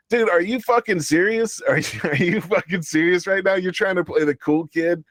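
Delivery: can't believe what he's hearing; incredulous. Retold or imitated. Host ranting at streamer who snubbed him, incredulous.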